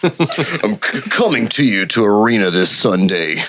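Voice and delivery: lightly deep arena hype voice; a hint of monster truck promo; fighting game announcer. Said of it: "very good announcer voice".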